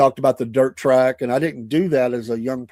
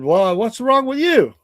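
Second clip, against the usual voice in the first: put-on higher, slow caring question to a child; gentle grandpa question; 9 semitones higher, 6 dB louder, slower than usual. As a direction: coax the upset granddaughter, slowly and higher. Grandpa asks upset granddaughter.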